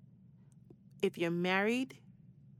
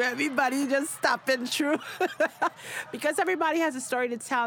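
excited; 7 semitones higher, 5 dB louder, faster than usual. Real, not acted. Hyping next year's guests.

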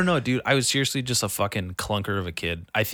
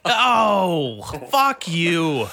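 higher, louder snap back; retold angry retort; 5 semitones higher, 4 dB louder, much slower than usual. Comic retells snapping back at the heckler, louder and higher. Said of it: "And I was like".

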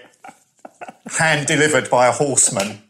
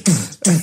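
imitated rave beat; 5 semitones higher, 3 dB louder than usual. Imitates thumping rave music.

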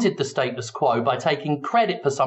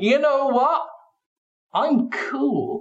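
smug; 10 semitones higher, slower than usual. Retold or imitated. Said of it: "They sit there and think".

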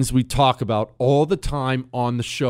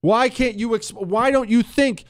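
exasperated plea; 7 semitones higher than usual. Retold or imitated. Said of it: "'cause you say".

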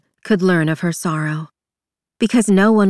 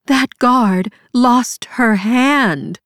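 bitter retort; 6 semitones higher, 4 dB louder, much slower than usual. A narrator's reading.

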